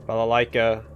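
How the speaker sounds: loud involuntary blurt of words; a sudden uncontrolled outburst; tic shout. Acted. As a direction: yell them out as if you can't help it. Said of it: "I didn't want to say that".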